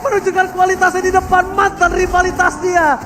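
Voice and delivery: drawn-out roaring caster call; hype shout. Real, not acted. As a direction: yell the kill streak, stretching words. Caster yells maniac call.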